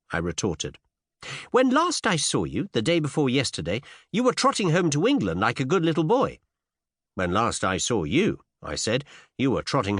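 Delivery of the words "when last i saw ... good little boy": put-on high, teasing young woman's voice; pert young lady. A narrator's reading. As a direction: tease him in a lilting high voice.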